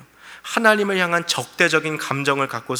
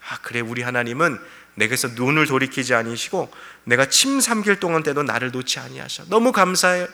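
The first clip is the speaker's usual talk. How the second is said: grateful praise; 2 semitones lower than usual. Retold or imitated. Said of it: "하나님을 향한 찬양이 될 수 있어요".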